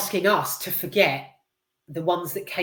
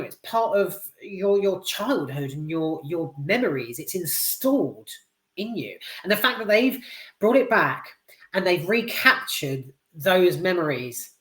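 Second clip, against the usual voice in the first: ordinary talk, nothing marked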